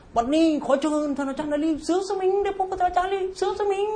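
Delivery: mock announcer, pitched far up and held high; hyped-up announcer impression. Mocking the MC who invites the teacher up, hyped-up announcer voice. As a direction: stretch the name out like a ring announcer. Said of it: "ยิ่งทำเสียงดังๆ".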